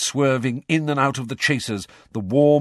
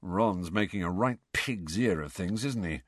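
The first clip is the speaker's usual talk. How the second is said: low, softer aside to a friend; muttered; 3 semitones lower, 6 dB quieter than usual. Acted. George confiding to Harry about Ron, muttering. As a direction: keep it under your breath. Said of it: "muttered George".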